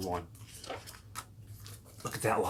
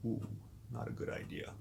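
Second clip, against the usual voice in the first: put-on hushed little whisper to the kids; whispered aside; 11 dB quieter than usual. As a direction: whisper it like a secret warning. Aside to kids about Adam.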